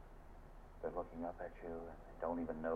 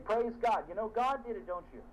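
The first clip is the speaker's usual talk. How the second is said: higher and louder joyful praise; higher, joyful exclamation of praise; praising; 5 dB louder than usual. Retold or imitated. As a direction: rejoice with him. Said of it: "I'm saying".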